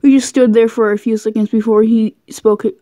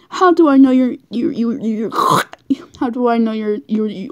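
breaking up. Real, not acted. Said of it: "I can't say it".

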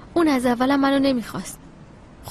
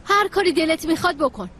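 sharp, raised, fed-up retort; angry outburst; 5 semitones higher than usual. Acted. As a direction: throw it back at him in anger. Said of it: "عصبانی نشو".

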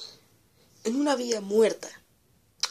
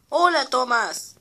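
friendly little engine; 4 semitones higher, 4 dB louder, slower than usual. Acted. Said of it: "dijo Percy".

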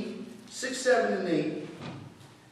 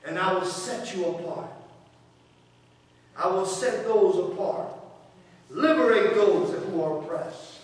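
gentle reassurance; 5 semitones lower than usual. Acted. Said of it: "And then he says".

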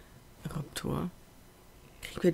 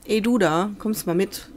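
calling out; 3 semitones higher, 5 dB louder than usual. Acted. Calling a dinosaur to follow.

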